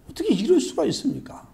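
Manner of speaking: high, aggrieved cry of unfairness; indignant protest. Acted. Worker protests to the master, high and aggrieved. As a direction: stress on 이럴, a wounded how-could-you. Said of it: "따지고 원망하고 불평을 하는 거예요".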